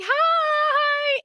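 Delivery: squeaky high timid hi; tiny shy hi. Retold or imitated. Shy speaker whispering hi to strangers, squeaky and high.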